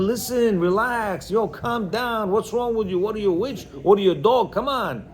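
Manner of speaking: mock exasperated telling-off, pitched a little up; lightly acted irritated rebuke; upset husband. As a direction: imitate a husband snapping out of patience at his wife. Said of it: "when we get upset".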